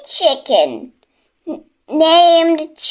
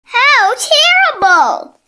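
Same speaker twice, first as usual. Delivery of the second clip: shocked cry; 10 semitones higher than usual. A narrator's reading. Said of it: "cried Cocky Locky".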